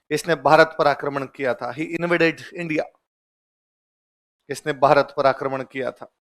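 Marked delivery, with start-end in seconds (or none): 1.7-3.0 slow and soft; teacher dictating slowly; slow dictation. Shown as a demonstration. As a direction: dictate it word by word. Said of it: "लिख लो".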